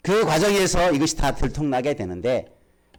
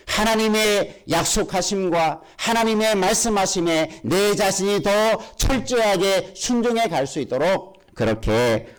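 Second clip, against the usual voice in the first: fervent preaching; 5 semitones higher than usual. Acted. Preaches with fervour.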